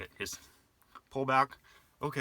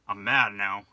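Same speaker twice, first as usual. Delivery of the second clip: mock outburst; 8 dB louder, slower than usual. Mock offended guy.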